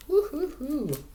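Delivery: high playful hoot of delight; high flirty woo-hoo. Real, not acted. Reader whooping at a card's hot man, high flirty woo-hoo.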